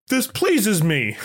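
imitating a stately don; Godfather. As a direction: draw it out like a mafia boss. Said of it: "Like The Godfather".

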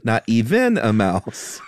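slow recital that lands off the beat; clumsy meter. Shown as a demonstration. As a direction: finish the line slow and out of rhythm. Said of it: "Can I read it like you wrote it?".

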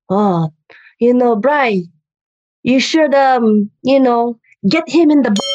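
lightly voiced tiny old auntie; a hint of a scheming grandma, halting; old lady. Old mom advises her fighter son, lightly impersonated. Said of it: "she's an old lady".

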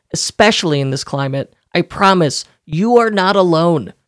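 polished, emphatic podcast ad delivery; sponsor ad read. Acted. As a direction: read the sponsor copy with punchy, deliberate emphasis. Reads a sponsor ad.

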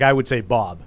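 Boston vowel in "Bob", open and flat like "Bab". Shown as a demonstration. Explaining Boston vowels to hosts, Boston "Bob". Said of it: "like, the O's and".

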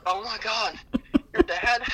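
rising up high in alarm; shocked cashier. Retold or imitated. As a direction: gasp it out as the cashier. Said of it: "the girl's like".

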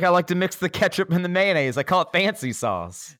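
quoting a movie line in a put-on voice; movie quote, playful; Step Brothers quote. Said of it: "He's like".

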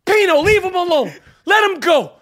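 shop owner calling out. Acted. Sal character to Pino.

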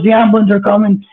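high, urgent mock yell; imitated screaming. Friend warning Wes the ambulance is coming, high mock yell. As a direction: keep the friend's panicked voice up high. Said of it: "He's screaming in my face".

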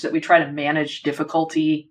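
"manage" given deliberate weight; stress on manage. Real, not acted. Host to author on how we handle difficulty, stress on "manage". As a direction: lean on the word "manage". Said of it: "emphasis on the word manage".

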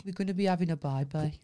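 low-pitched Birmingham accent; Brummie accent. Shown as a demonstration. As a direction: echo it back in brisk Brummie. Echoes the accent demo back.

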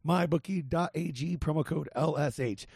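hoarse, scratchy ad read; rough voice from being sick; raspy voice. Real, not acted. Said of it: "Sorry for my raspy voice".

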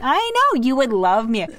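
gleefully teasing boast; playful squeal. Real, not acted. Teasing her cohost with a high squealed I know. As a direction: jump way up high on I know, then settle.

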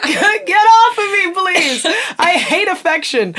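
high, drawn-out squirming protest; mock disgust. Grown child fending off dad's kiss, playfully repelled. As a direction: push away a smothering parent, hammed-up.

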